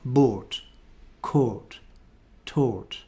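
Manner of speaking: "bought", "caught", "taught" with long rounded RP O; RP vowel. Shown as a demonstration. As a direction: model each word in RP. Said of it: "past tenses and past participles".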